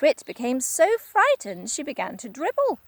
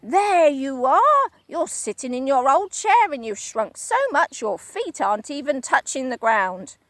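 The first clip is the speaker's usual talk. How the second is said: Mister Twit shouting; 3 semitones higher, 5 dB louder than usual. Acted. Husband pointing at his wife, triumphant shout. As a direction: crow it out pointing. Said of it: "pointed at her and shouted".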